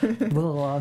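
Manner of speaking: mock New York accent. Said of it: "That's my New York accent".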